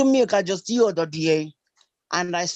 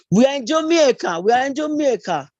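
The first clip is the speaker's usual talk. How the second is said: mock Jamaican accent; 4 semitones higher, 4 dB louder than usual. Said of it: "don't have the accent for Jamaica".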